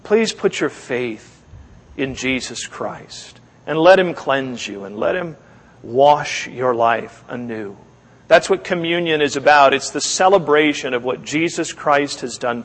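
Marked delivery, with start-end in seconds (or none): 0.0-7.8 pleading. Retold or imitated. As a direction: gently beg him to obey. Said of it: "as Jeremiah said to the king".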